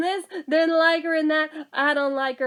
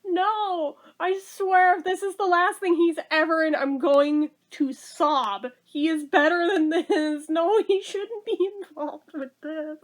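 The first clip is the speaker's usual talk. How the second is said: mock distressed pleading; 4 semitones higher than usual. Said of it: "I was like".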